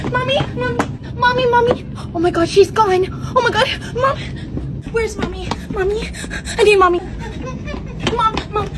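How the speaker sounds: high, teary calls for mommy; panicked crying kid. Acted. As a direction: sob out for a lost mother. Kid panics, mom gone.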